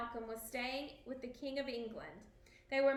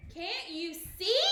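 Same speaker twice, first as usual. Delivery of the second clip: higher, louder, slow shout; desperate shout; 5 semitones higher, 5 dB louder, slower than usual. A narrator's reading. King shouting at his guests in panic. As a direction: shout it out, pleading. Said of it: "shouted Macbeth".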